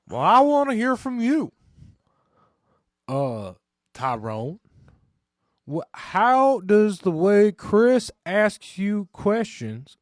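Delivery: high, loud, drawn-out TV therapist; hammed-up talk-show doctor, stretching the words; Doctor Phil. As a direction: boom it out high and slowly. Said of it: "what's your best Doctor Phil?".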